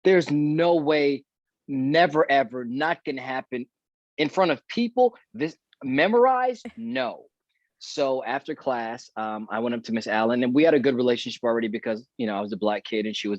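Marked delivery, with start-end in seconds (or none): 0.0-7.3 higher-pitched, incredulous protest; retold disbelief. Student stunned at getting the lead role, disbelieving. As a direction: replay the shock, pitch climbing as the objections pile up. Retells his shocked refusal of the role.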